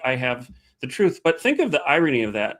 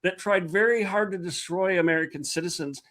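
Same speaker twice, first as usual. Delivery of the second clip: indignant outrage; 8 semitones higher than usual. Real, not acted. Repeats her outraged point.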